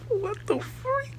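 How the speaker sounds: very high, slow, laughing squeal; giggling what-the-freak; laughing disbelief. Retold or imitated.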